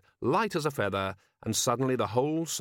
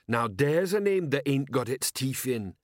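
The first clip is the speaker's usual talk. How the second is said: troll voice; 3 semitones higher than usual. Acted. Troll sergeant asking his commander, dim troll voice.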